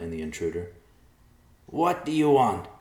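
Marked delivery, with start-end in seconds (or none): 1.7-2.7 loud, high, drawn-out demand; alarmed yell. A narrator's reading. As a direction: yell at the intruder. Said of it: "he yelled".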